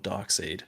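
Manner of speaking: Darkseid ending like "seed"; mispronounced Darkseid. Real, not acted. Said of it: "My bad".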